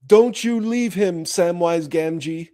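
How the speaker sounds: a hint of a commanding wizard, slowed; lightly voiced solemn order; Gandalf's charge. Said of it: "Gandalf said to him".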